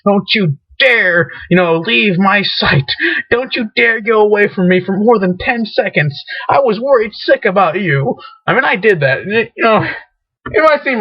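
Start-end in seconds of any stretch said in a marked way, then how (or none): 0.0-8.2 lecturing like a parent. Retold or imitated. Parent to runaway stuffed whale, mock lecturing. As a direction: play a mildly stern worried parent. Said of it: "like he's my own son".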